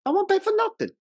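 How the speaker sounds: very high, pinched stubborn father; imitating the father's intonation. Quoting the father's final line from the stairs, high mock indignant. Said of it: "I love the intonation on his final line".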